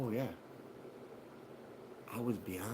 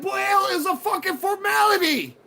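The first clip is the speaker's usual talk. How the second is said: higher, louder mock defiance; defiant retort; 8 dB louder than usual. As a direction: toss it back at the judge with a sneer. Retold defiance to the judge.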